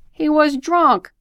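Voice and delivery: loud, high, drawn-out exclamation; exclaimed accusation, pitched high; emphatic outburst. Acted. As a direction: cry it out slowly and loudly. Outburst breaking into the telling.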